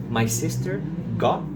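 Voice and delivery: "got" terminando na vogal, sem T; T final omitido. Shown as a demonstration. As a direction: diga "got" como "gó", sem soltar o T. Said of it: "não falei o T". ("got" com o T final mudo)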